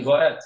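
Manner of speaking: "Va'ed" said quickly with the final d lost into a t. Shown as a demonstration. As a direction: clip the last d of "Va'ed" so it sounds like t. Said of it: "if you say it quickly".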